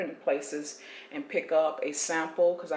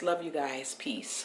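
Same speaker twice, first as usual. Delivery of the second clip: whispering; 4 semitones lower, 5 dB quieter, slower than usual. Real, not acted. Signing off quietly.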